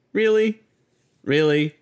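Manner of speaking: sharp disbelieving really; incredulous. Real, not acted. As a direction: ask it in outraged disbelief. Incredulous repeat.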